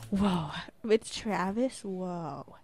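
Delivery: slow, drawn-out mock amazement; imitated impressed surprise. Girl reacting to friend's gossip, imitated amazement. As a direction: stretch each whoa in mock awe. Other girl's reaction, acted.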